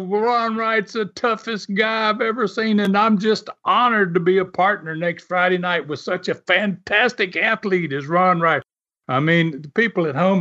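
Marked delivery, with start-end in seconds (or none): 0.0-8.6 lightly voiced French-Canadian accent, a bit higher. French-Canadian wrestler praising his partner on TV, light French-Canadian accent. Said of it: "French-Canadian accent".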